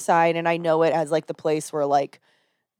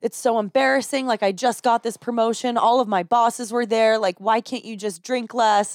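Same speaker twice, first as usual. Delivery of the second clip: slightly raised nagging voice; imitated nagging; 4 semitones higher than usual. Retelling wife scolding drunk husband after work event, nagging. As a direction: scold on and on, lightly acted. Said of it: "not even answering her nagging".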